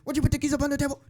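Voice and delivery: put-on high, loud Aussie accent; high-pitched Australian accent. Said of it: "do an Australian accent".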